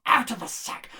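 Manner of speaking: high, loud magic words; eager command. Acted. Innkeeper opens the stolen sack, eager loud command. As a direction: call it out greedily.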